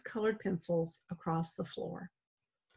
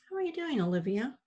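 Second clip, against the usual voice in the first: How are you doing, Olivia said with every word leaned on; weight on each word; 4 semitones higher, faster than usual. Acted. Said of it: "adding weight to each word".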